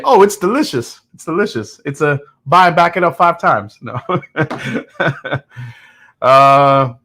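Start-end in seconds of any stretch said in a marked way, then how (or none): 0.0-3.8 higher, hammed-up gushing praise; mock gushing. Host mocking himself as a paid-off sellout, hammed-up gushing. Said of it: "he went from 'it's okay' to 'the best thing I've ever had'".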